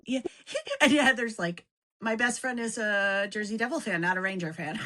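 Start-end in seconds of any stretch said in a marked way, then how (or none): 2.0-4.8 laughing quote. Retold or imitated. Voicing friend while laughing.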